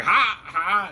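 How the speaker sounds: two short, high "ha" cries; lightly acted goblin yelps behind a door. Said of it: "they're like".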